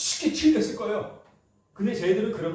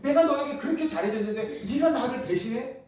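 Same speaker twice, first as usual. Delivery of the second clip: higher, half-laughing accusation of betrayal; indignant rebuke; 5 semitones higher than usual. Retold or imitated. Preacher voicing an ordinary man scolding Peter, mock indignant. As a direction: scold the disciple who swore loyalty. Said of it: "보통 사람은 그렇게 했겠죠".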